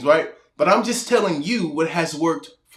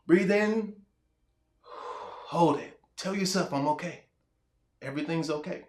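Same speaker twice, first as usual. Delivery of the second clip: much softer, almost a whisper, slowing into the breath; calm breathing guide; 9 dB quieter than usual. Shown as a demonstration. Coach guiding an anxious viewer through breathing, soft and hushed. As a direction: talk them down gently, barely voiced. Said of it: "guided breathing demo".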